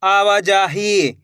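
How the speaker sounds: आवाजाही drawn out slowly; slow reading. Shown as a demonstration. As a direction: read आवाजाही slowly, joining each syllable. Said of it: "कैसे पढ़ेंगे?". (आवाजाही धीरे धीरे)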